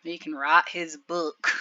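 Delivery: slow, mocking East Tennessee drawl; a hint of East Tennessee accent, said slowly to tease. Commentator mocking the suspect, lightly in East Tennessee accent. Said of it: "making fun of his accent and stuff".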